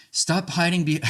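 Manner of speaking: a hammed-up angry jab; mock angry outburst. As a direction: snap it at your partner, then break off. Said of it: "how's this one for a last one".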